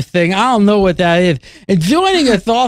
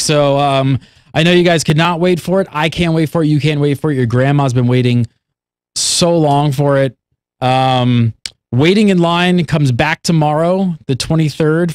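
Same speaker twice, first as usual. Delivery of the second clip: lisp; 5 semitones lower than usual. Pretend. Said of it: "talk with that lisp".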